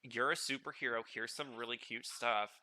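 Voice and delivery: excited cat. Retold or imitated. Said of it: "was like".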